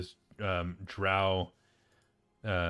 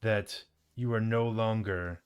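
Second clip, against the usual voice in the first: scolding drow; 2 semitones higher than usual. Acted. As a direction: dress down a slack underling. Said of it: "The drow looks at the bugbear and says".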